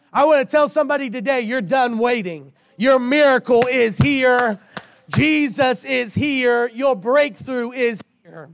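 rising, urgent preacher's proclamation; fervent preaching. Real, not acted. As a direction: proclaim it to the congregation. Preaching at full force.

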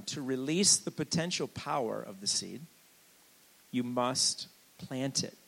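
measured repeat, pausing before "you must plant it"; dictation pace. Shown as a demonstration. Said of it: "if you're writing it down".

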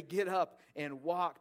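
a loud, slow command to rise; preacher booming out a healing command; commanding call. Pretend. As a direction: order the lame man to stand, slowly and loudly. Preacher voicing Jesus' healing command.

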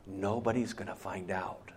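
unvoiced tempter's whisper. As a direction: breathe it in their ear like a tempter. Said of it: "he whispers in your ear".

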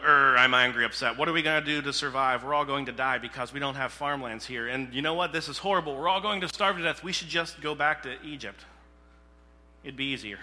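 loud whiny complaining voice; grumbling Israelites. Acted. Preacher voicing the complaining people of Israel, loud whine. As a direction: whine it out like a sulking crowd. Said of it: "And the people are like".

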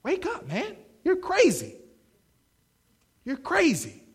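high, mock road-rage yell; mock yell at driver. Driver yelling at a distracted motorist, high mock yell. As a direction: call out at the careless driver.

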